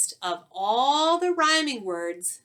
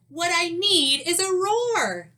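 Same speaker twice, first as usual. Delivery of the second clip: high and loud, leaning on roar; a tiny mouse announcing his plan; 8 semitones higher, 4 dB louder, slower than usual. Acted. Mouse telling himself he needs a roar, high and eager. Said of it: "he said".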